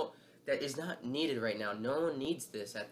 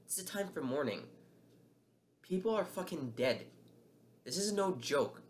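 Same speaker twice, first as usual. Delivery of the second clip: higher-pitched, upset pleading rant; getting emotional; 3 semitones higher than usual. Real, not acted. Vlogger ranting about the shooting, upset and raised. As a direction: voice rising as anger and grief spill over. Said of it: "I'm getting emotional at this".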